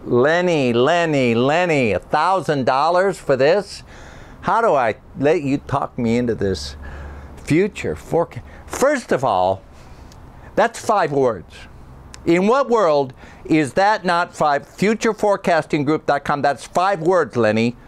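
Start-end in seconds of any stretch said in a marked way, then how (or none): 0.0-14.7 higher-pitched indignant haggler; exasperated voiceover talent. Acted. Irate voiceover talent Barry on tape. 16.4-17.8 higher-pitched indignant haggler; exasperated voiceover talent. Acted. Irate voiceover talent Barry on tape.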